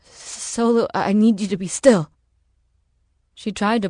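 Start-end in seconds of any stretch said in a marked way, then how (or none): 0.0-2.1 strained plea, growing louder; groaning urgency. Acted. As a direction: push it out urgently, exhausted. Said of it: "she groaned".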